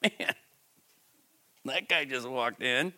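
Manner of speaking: mock recoiling bystander. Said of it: "You don't want that".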